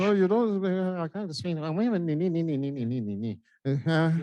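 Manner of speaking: lightly put-on Nigerian accent, playful; a Nigerian newcomer teasing the doctor, accent only hinted. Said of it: "You have just triggered the next role play".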